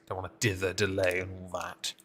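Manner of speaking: talking through a yawn; words stretched by a yawn. Real, not acted. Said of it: "once I've yawned".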